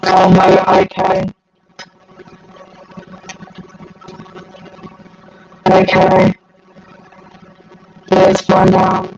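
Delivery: robotic distorted stream audio; robotic glitchy mic. Real, not acted. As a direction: voice garbled like a robot by a bad connection. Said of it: "I apparently sound like a Dalek".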